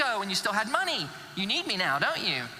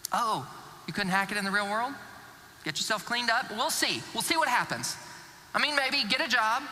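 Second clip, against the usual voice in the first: sarcastic skepticism. Acted. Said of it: "filled with sarcastic skepticism".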